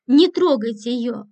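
understated desperate yell into the phone; desperate shout. Acted. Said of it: "отчаянно закричал он в трубку".

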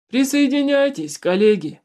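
high, loud call to friends; shouting. A narrator's reading. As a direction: shout it out as an invitation. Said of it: "крикнул он друзьям".

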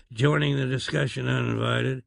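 usual speaking voice

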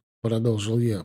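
ordinary delivery, nothing marked

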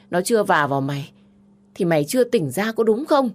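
contemptuous sister yelling; berating older sister. Acted. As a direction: tear her down as stubborn.

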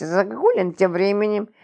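ordinary delivery, nothing marked

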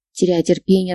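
plain reading voice

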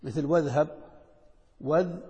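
"واذهب" run together as weðhab, no glottal stop; hamza dropped. Shown as a demonstration. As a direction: slide straight from wa into "اذهب". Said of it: "الهمزة ما نطقت في الوصل".

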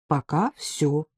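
soft, slow and easygoing; calm her down gently, unhurried; peaceable. Acted. The man calmly reassuring the woman that it's over for now, soft and slow. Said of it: "миролюбиво подтвердил Саша".

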